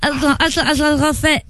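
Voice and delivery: mock tongue-pinched speech; tongue caught. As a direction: talk with your tongue clamped in a buckle. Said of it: "je vais me coincer la langue".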